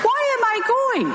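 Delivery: high, laughing protest; laughing disbelief. Retold or imitated. Nun's own retold bafflement.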